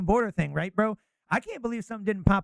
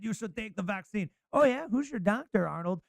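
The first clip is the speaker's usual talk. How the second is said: mock Austrian accent, Arnold style; a light Arnold Schwarzenegger Austrian voice; 3 dB louder than usual. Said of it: "Arnold Austrian accent doing a Tony Fauci".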